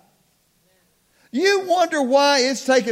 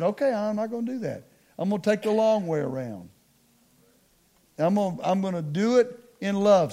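soft, lower retold concession; hushed voice of someone backing down; God relenting; 3 semitones lower, 6 dB quieter, faster than usual. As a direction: give in quietly, as if talked round.

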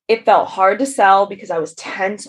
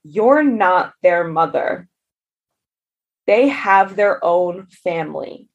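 calm reassurance; slower than usual. Retold or imitated. Husband's calm words quoted.

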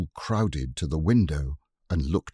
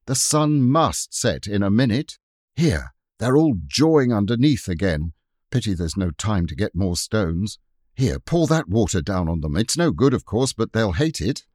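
excited defiance; 2 semitones higher, 4 dB louder than usual. Acted. Robert rallying during the siege.

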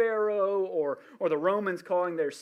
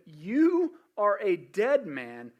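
voice of God; 2 semitones higher, 5 dB louder, much slower than usual. Acted. God's voice repeated, slow.

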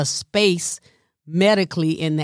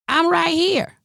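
exasperated; 11 semitones higher than usual. Real, not acted. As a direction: insist you're right in front. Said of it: "What in the whole hell?".

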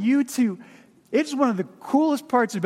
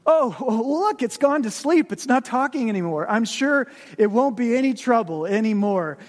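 pleading ghost; 3 semitones higher than usual. Acted. Ghost pleads to spare lizard.

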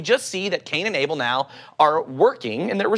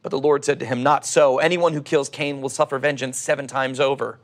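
calm, measured Bible reading; scripture reading; 3 semitones lower than usual. Acted. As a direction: read the passage like a sermon text. Reads Genesis passage aloud.

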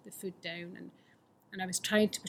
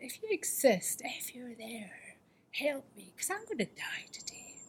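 desperate plea; 5 semitones higher than usual. Retold or imitated. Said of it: "I shouted out to God".

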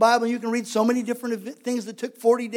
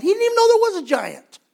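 emphatic preaching; 10 semitones higher, 5 dB louder than usual. Real, not acted.

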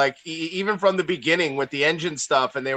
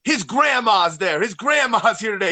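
imitating an excited fan; 5 semitones higher than usual. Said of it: "He goes".

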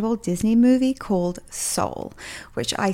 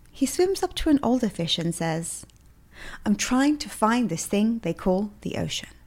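storytelling read; 3 semitones higher than usual. Shown as a demonstration. Host reading a movie quote to listeners, gentle storytelling. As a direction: tell the fish parable gently. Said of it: "I wonder if I should reread that for you".

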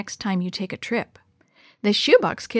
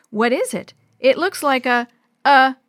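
smug little show-off, slightly louder; know-it-all voice; 4 semitones higher, 6 dB louder than usual. Acted. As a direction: lecture it like you know everything. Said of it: "in a know-it-all voice".

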